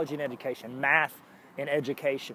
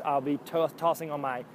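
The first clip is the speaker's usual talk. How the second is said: normal talking voice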